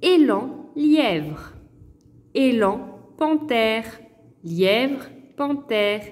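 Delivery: élan, lièvre, panthère read clearly one by one; teacher modelling word sounds; careful word list. Shown as a demonstration. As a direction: say each word slowly so pupils hear the e. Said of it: "je vais vous dire".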